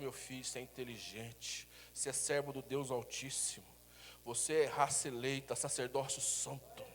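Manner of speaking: low, soft, slowed loving blessing to a son. Shown as a demonstration. Father blessing his son, soft loving voice. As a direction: bless the child gently. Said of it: "Fala assim".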